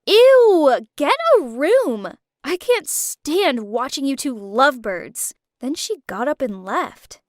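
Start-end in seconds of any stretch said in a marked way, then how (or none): 0.1-5.3 whiny. Acted.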